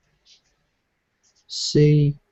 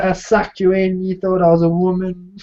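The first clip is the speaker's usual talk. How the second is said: teasing high voice; 7 semitones higher than usual. Retold or imitated. Mocking the prank reveal.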